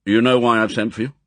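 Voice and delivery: put-on brisk commanding old admiral; clipped order from a stern boss; M, gruff chief. Chief questions his agent, brisk and commanding. M summons Bond.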